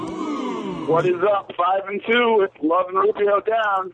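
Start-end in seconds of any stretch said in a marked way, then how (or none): 0.0-1.5 drawn-out shout. Acted. Caller echoes host's greeting.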